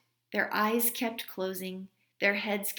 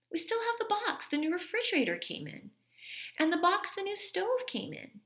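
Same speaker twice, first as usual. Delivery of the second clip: higher mom's voice, delighted; mother's voice; 10 semitones higher, faster than usual. A narrator's reading. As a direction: pitch the idea like a fun mom. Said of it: "mother continues".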